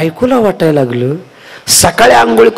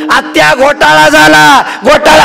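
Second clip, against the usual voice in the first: high, loud panicked shout; shouting wife; 11 semitones higher, 3 dB louder than usual. Acted. Wife runs out yelling to her mother-in-law, high and loud. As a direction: burst out of the room yelling. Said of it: "बाहेर ओरडत आली".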